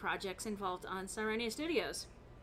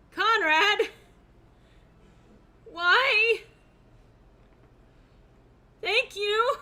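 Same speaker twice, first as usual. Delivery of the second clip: surprised; 11 semitones higher, 13 dB louder, much slower than usual. Real, not acted. Surprise donation from viewer.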